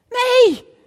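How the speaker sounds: loud, sharp no; emphatic no. Real, not acted. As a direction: shout the no, high and loud. Answers own rhetorical question. (luid en hoog: nee!)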